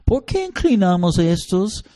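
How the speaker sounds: put-on a small kid puzzled by the rule; child asking. Child questioning his mother about the idols, curious. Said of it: "ellos van a decir".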